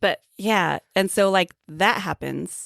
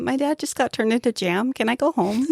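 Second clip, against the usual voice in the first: Jack Nicholson impression; 5 semitones higher than usual. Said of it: "I can't do Jack Nicholson".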